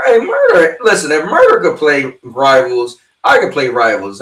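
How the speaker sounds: loud high call, then teasing. Real, not acted. Streamer loudly calling out a friend in chat, teasing. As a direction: shout his name then rib him.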